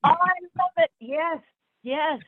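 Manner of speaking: high, bright burst of delight; thrilled high-pitched reaction. Real, not acted. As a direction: gush with real pleasure. Delighted reaction to Hopkins anecdote.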